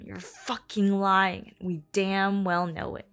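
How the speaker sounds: grind it out through gritted teeth. Acted. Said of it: "hear his teeth grinding together as he spoke through them".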